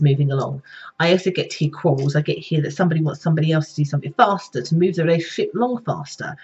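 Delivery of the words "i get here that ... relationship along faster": sped-up, hurried delivery; quick, pressing pace; speaking faster. Real, not acted. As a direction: rush the words along. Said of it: "Even the way I'm speaking is faster".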